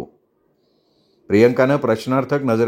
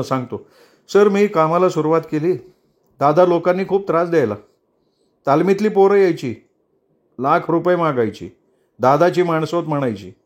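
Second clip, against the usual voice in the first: higher, earnest contractor pouring out his story; lightly voiced, earnest grateful visitor; 5 semitones higher than usual. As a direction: explain your troubles eagerly to your benefactor. Mahadik explains, narrator voices him.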